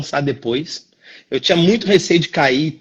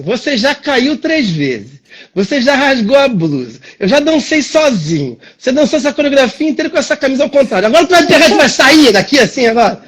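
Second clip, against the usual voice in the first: through clenched teeth; 5 semitones higher than usual. Retold or imitated. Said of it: "com o dente cerrado assim". (bronca imitada de dente cerrado)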